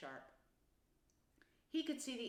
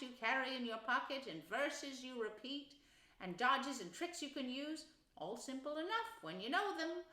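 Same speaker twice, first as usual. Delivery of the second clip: lightly voiced animal character, a little higher; kindly, chiding Rat; 4 semitones higher, 4 dB louder than usual. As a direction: gently explain the rules to a newcomer. Rat gently lectures frightened Mole.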